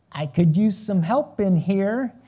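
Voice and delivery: slow, loud pointed hint. Acted. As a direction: drop a heavy hint, slowly. Martha hinting at Mary.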